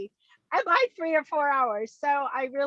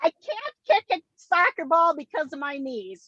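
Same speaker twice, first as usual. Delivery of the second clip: ordinary talk, nothing marked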